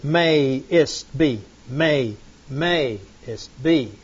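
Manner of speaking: "may" and "be" hit, "ist" light; stressed syllables. Shown as a demonstration. Teacher beats out the verse rhythm for students, stressing syllables. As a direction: tap out the beat, first and third strong. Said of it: "First and the third".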